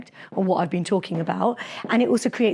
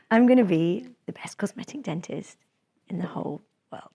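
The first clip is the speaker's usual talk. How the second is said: serious and calm. Shown as a demonstration. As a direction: say it steady and serious. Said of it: "if I look at you really seriously".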